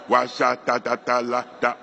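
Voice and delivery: lightly spoken nonsense syllables; spoken tongues syllables. Shown as a demonstration. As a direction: babble syllables as a demo. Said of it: "on continue de prononcer des syllabes".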